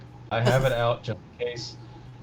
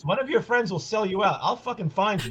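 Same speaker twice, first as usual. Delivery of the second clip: gravel voice; 7 semitones higher than usual. Retold or imitated. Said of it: "Gravel Voice".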